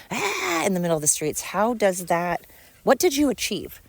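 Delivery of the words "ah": mock scream. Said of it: "literally screaming".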